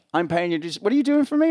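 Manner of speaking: rising, loud demanding question; an irritated star quizzing the rigger loudly; demanding boss. Retold or imitated. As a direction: press him on what he's doing. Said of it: "He goes".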